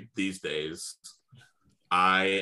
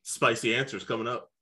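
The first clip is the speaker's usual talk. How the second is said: announcer shout; 4 semitones higher than usual. Pretend. Teasing announcer-style callout.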